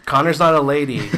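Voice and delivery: laughing while talking. Real, not acted. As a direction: chuckle through the words. Joking, laughing at line.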